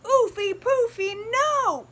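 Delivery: the other piggies cheekily saying no to soap; cheeky refusal. Acted. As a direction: refuse them playfully.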